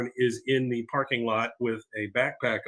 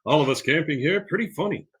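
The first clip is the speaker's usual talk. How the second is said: John Redcorn; 4 semitones higher than usual. Retold or imitated. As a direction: draw out the hello with big pitch swings. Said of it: "John Redcorn looks at him and goes".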